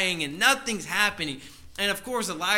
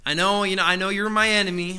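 bold prophet; 3 semitones higher, 8 dB louder than usual. Retold or imitated. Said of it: "and he says".

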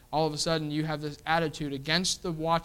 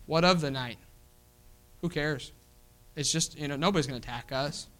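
careless shrug; 3 semitones lower than usual. Retold or imitated. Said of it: "the careless people".

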